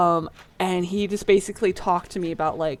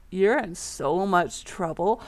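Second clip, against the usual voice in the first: sister taunting; 2 semitones lower, 5 dB quieter, slower than usual. Retold or imitated.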